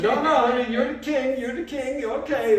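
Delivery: a hint of a coaxing wife; lightly voiced wife.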